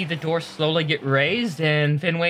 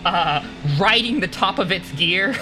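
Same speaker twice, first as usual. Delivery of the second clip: game master's narration. A narrator's reading.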